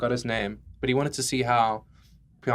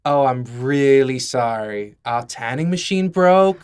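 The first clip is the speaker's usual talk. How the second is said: slow, louder clerk delivering bad news; mock apologetic clerk; 4 dB louder, slower than usual. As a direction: play the tanning clerk breaking the news. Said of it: "I'll be the guy who has to tell you".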